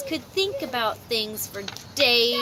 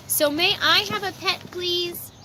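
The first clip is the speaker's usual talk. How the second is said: higher, pleading "please"; begging child; 5 semitones higher than usual. Acted. Franklin begging his parents for a pet, pleading. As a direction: beg your parents sweetly for a pet. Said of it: "he begged".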